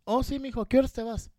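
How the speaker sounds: lightly voiced doting mom; sweet mother.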